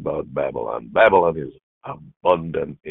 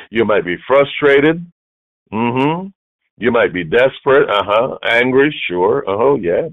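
rising preacher fervor; 6 semitones higher, 5 dB louder than usual. Acted. Preacher voicing congregation's feelings.

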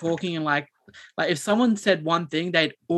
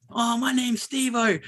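higher, slow, hammed-up call to the screen; ape her attention-seeking shout-out, drawn out; 6 semitones higher, slower than usual. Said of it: "the same girl would just go".

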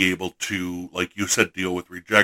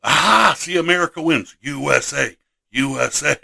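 mock triumph; 4 semitones higher than usual. Winning a British versus American throwdown, mock triumph. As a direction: crow like the winning side.

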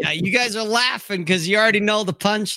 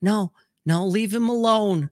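higher, doting coo, lightly acted; indulgent mom; 4 semitones higher than usual. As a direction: play the mom shielding the dog. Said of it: "Mom's like".

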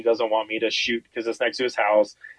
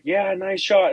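higher-pitched, keyed-up quick praise; retold hunting excitement, pitched up; pumped up; 6 semitones higher, slower than usual. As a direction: cheer on a buddy, pumped. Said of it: "all pumped up".

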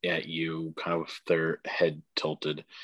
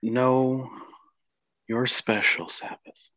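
grandmother spirit, earnest; 5 semitones higher than usual. Acted.

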